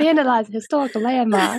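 put-on laughing Boston accent. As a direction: laugh through a Boston impression. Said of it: "I could not with his accent".

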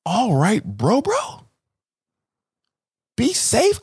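rising casual bro goodbye; black slip. Retold or imitated. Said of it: "letting my black slip out".

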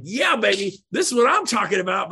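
put-on gleeful yeah baby; mock buyer excitement. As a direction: play the client who just fell in love with the house. Buyer thrilled by final home.

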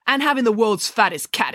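put-on a light exclaim from a girl. Chelly exclaims about the fattest cat, lightly excited. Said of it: "exclaimed Chelly".

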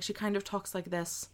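lightly put-on Irish accent. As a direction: softly mimic an Irish accent. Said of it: "like, Irish accent".

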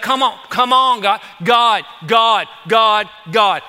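imitating a desperate plea; urgent mock pleading. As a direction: call out to God repeatedly, punching each cry. Acts out David's urgent plea to God.

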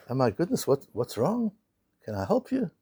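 soft, concerned offer of help; acted concern. Customer to the sobbing bank clerk, softly concerned.

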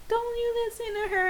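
high-pitched, imitated comforting; mock-consoling, pitched well up; retold sympathy. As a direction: imitate someone fussing over you protectively. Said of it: "giving me sympathy".

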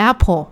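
"apple" copied the native English way, dark l at the end; English-accented "apple", with no final n; native English pronunciation. Shown as a demonstration. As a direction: say "apple" as a child copying native-speaker parents would. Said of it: "เขาก็เรียก".

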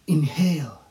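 breathy whispered cue. Real, not acted.

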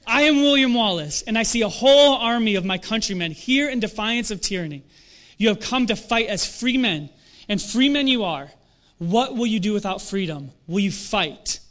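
lightly acted battlefield oration; rousing movie speech, read aloud; William Wallace. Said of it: "one of my favorite scenes is when William Wallace".

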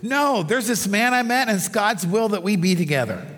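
imitating her dreamy certainty; mock-swooning retold pastor; gushing infatuation. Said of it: "She says".

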